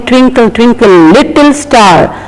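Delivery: "little" with a stressed double T, as tots recite it; children's mispronunciation. Retold or imitated. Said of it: "we hear the young children".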